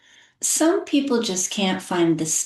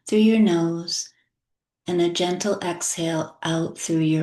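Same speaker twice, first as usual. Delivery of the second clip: unhurried meditation guide, with long pauses between phrases; guided meditation. Real, not acted. Artist guiding listeners with chronic lung illness into relaxation, gentle guided meditation. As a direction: guide them gently through breathing and relaxing.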